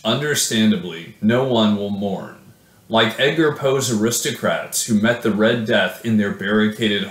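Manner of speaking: measured, solemn poetry reading; poem reading. Acted. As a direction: read it like a dark elegy. Reads own poem aloud.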